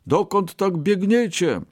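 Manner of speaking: high-pitched anxious question; calling out. A narrator's reading. Third rabbit asks where they run, calling out. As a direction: call after runners in a high voice. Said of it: "zawołał".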